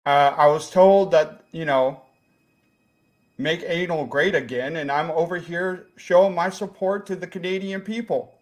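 put-on light comic Jacksonville accent. Lost visitor explains himself to the host, light Jacksonville accent. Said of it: "I thought I did a pretty good".

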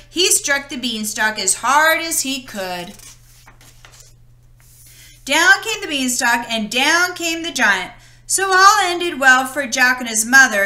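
lively read-aloud story voice; storybook narration. A narrator's reading. Narrator reading Jack and the Beanstalk to children, storytelling. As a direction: tell it like a bedtime story to kids. Reads fairy tale to children.

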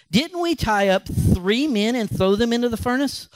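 amazed king. Acted. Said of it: "jumped up in an amazement and exclaimed".

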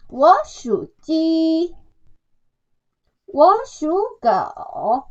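我属鸡 and 我属狗 read slowly, each tone drawn out; slow careful model line for students. Shown as a demonstration. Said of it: "다음 볼게요".

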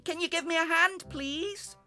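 high, loud call for help; little breeze shouting. A narrator's reading. Breeze asks his big brother for help, calling. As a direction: call up pleadingly to a faraway helper. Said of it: "shouted the little breeze as loudly as he could".

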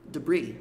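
"Debris" with the final S silent, falling; S mudo. Shown as a demonstration. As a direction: say "Debris" as if it had no S. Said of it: "Como se o S não existisse". ("Debris" sem pronunciar o S final)

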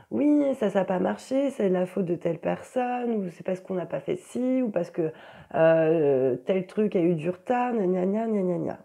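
lightly mocking blame-shifter; mildly hammed-up complaining; mock excuse-making. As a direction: reel off excuses, ending in mocking nonsense syllables. Voicing excuses that blame others.

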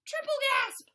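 high, loud dramatic gasp; hammed-up gasp. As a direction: gasp it out theatrically. Fish runs out of air.

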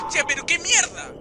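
sudden loud scared curse; grito de susto. Real, not acted. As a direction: blurt it out startled. Susto en juego de terror. (grito asustado)

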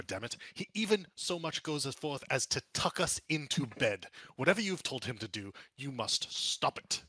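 a touch of indignant ranting; mild mock shouting. Nobleman rants to visitors about the ogre, mildly indignant. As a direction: complain bitterly about the ogre. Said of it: "he begins shouting".

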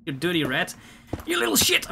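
hammed-up outrage at the little rats; shrieking mock scolding. Scolding the rats, last line shrill.

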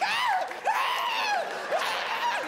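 put-on high shrieking kid yells; mock kid screams. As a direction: shriek like scared third graders. Kids screaming in daylight.

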